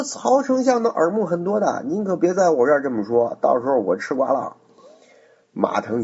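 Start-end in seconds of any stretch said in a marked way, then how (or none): 0.0-4.6 mock nervous. Dong Cheng feigns fear of Cao.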